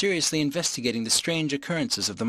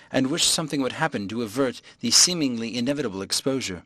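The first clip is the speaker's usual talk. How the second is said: ordinary delivery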